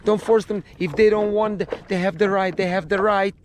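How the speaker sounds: mock frantic mom begging don't force them; mocking his ex pleading for the kids; mother flipping out. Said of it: "the mommy flips".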